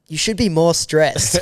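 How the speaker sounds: slow, drawn-out retold warning; pointed mock warning. Stewardess warning the oblivious friend, slow and pointed. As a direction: spell it out slowly, amused.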